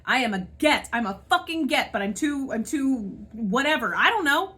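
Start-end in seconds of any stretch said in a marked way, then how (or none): 4.0-4.5 I don't know with a frustrated rise; venting, starting to boil over; exasperated outburst. Real, not acted. To viewers about jobless months, rising exasperation.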